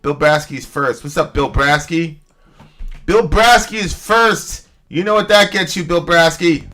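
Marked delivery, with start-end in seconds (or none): 3.0-6.7 hype announcer. Acted. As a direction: hype it up like a stream host. Hyped shout-out to viewer.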